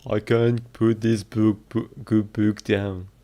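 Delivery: stumbling Scottish accent attempt after a laugh; practising Scottish accent. Shown as a demonstration. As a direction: try the sentence in Scottish, tripping over it. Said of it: "How to do a Scottish accent".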